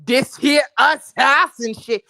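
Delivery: slow, heavy street accent with the words dragged out; put-on street accent. Shown as a demonstration. Streamer demos the street accent chat expects, drawn out. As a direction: lay the street accent on thick to show how chat hears it. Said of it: "If I'm not talking like this".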